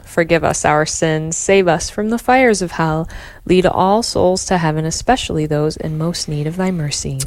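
steady devout prayer; prayer recitation. Acted. Fatima prayer response.

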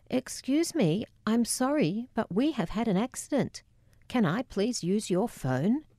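overly courteous plea for help; excessive courtesy. Retold or imitated. Narrator to service station attendant, overly polite. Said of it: "first response to shock tends to be excessive courtesy".

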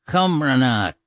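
"Cumrana" carefully repeated, ending on an open ah; Irish pronunciation. Shown as a demonstration. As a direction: sound out "Cumrana" in three syllables. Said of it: "comes from cumrana".

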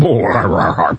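low, rumbling mock retch; hammed-up gagging belch; throat-trouble noise. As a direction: gag as if something is stuck in your throat. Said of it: "little something in my throat there".

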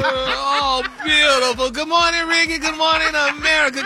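gushing sing-song good morning; big morning greeting. Acted. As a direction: sweep up into a bright on-air welcome.

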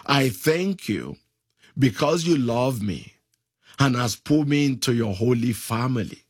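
led prayer. Shown as a demonstration.

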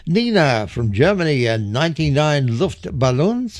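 a light mock German accent on the song title; playful hint of German accent; silly German accent. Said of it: "I put that silly accent on".

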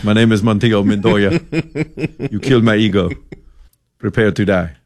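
mock swashbuckler vow; hammed-up revenge line; Inigo Montoya parody. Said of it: "I had my vengeance".

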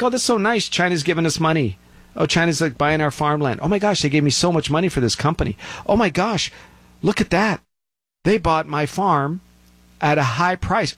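high, gushing, hammed-up gullibility; mock naive delight. Sellers thrilled by foreign buyers' money, mock naive delight. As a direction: sneer at the naive sellers by overplaying their glee.

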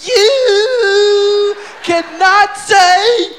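hammed-up angry lecture, stretching each word; Bill angry. Bill scolding the comic for cursing, mock angry drawn-out lecture. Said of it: "that's when Bill got pissed".

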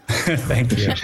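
laughing thank you. Real, not acted. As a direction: thank them through a laugh. Laughs after sleep joke.

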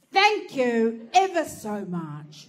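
slow, overly polite thanks; mock-posh thank you; sarcastic politeness. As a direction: drip fake courtesy. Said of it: "I go".

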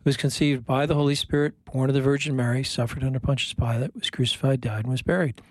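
measured, even recitation of a creed; recited prayer. Real, not acted. Priest leading radio listeners in the Creed, recited prayer. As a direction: recite it steadily, as a practised communal prayer.

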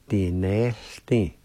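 "Di ne di" said slowly as one word; slow demo. Shown as a demonstration. Teacher modelling play slowly for learners. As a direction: say "Di ne di" slowly and smoothly. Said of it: "like this".

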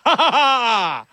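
slow, hammed-up ha-ha of gloating fans; mock gloating laugh. Fans gloating at a rival team, slow mock laugh. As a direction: laugh it out like a smug rival fan. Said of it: "people are like".

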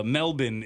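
Melbourne said as MEL-bin; Melbourne with a swallowed second syllable; local pronunciation. Retold or imitated. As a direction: reduce the end of Melbourne to a short "bin". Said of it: "the way that they were referring to it".

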